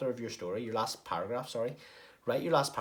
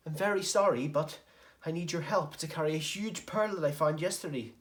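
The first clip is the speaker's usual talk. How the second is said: Carlton Crabbe pleading; 7 semitones higher, 3 dB louder than usual. Acted. Carlton pleads with angry Ozzy.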